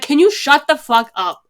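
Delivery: exasperated outburst. Retold or imitated. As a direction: act out losing patience with noisy talkers. Retells snapping at talkers in cinema.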